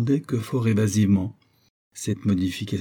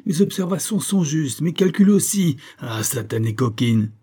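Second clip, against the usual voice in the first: furious muttering; 4 semitones higher, 3 dB louder than usual. Acted. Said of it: "voici ce qu'il aurait entendu se répéter à lui-même".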